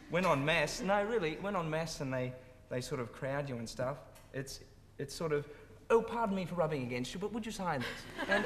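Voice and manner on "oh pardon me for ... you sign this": a light take on an overly polite fan asking for an autograph; sweetly apologetic, slowing right down on the request; polite English fan. Retold or imitated. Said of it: "They're most polite when they mob you".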